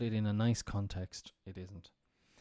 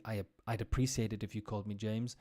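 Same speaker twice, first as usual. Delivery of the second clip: slightly aggressive; faster than usual. Shown as a demonstration. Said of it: "that would sound more aggressive".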